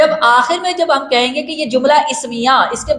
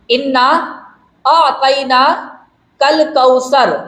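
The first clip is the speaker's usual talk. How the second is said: slow, with a pause after اِنَّا; slow recitation; slower than usual. Shown as a demonstration. Teacher showing where the verse starts, slow and spaced. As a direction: lay out اِنَّا ... أَعْطَيْنَاكَ الْكَوْثَرَ slowly, word by word. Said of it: "اب دیکھیں".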